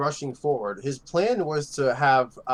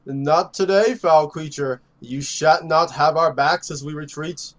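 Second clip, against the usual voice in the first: bold heroic proclamation; heroic warrior; slower than usual. Acted. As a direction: declare it like a noble knight. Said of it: "And he says".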